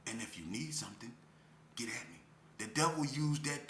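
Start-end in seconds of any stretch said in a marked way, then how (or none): 0.0-2.2 devil's luring. Acted. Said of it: "the devil used the same language as you".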